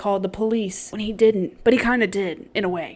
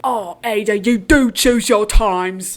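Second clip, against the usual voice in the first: a lightly voiced Arthur, slow and dry; imitating Arthur; 7 dB louder, slower than usual. Quoting Arthur's favorite line to Ada, mild impression. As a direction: deliver his dry quip, drawn out. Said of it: "one of my favorite lines from Arthur".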